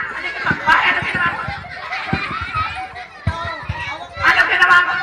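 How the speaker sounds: high-pitched pretend indignation; mock outrage. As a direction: demand an explanation in exaggerated shock. Mock outrage after hair pulling. (kunwaring gulat at galit)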